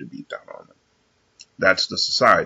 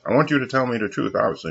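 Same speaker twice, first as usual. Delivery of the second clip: higher, quick mimicry of the woman; imitating coworker; 5 semitones higher, faster than usual. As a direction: mimic her eager insistence.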